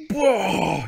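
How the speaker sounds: loud surprised whoa; big excited yell; excited shout. Real, not acted. Arm chopped off.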